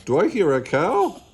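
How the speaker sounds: loud, high-swooping question; boisterous rising shout. A narrator's reading. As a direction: holler it in puzzlement. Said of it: "Bean shouts".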